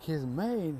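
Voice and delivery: incredulous echoing question; acted surprised query; mock disbelief. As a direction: repeat it as a puzzled crowd. Everybody questions the maid claim.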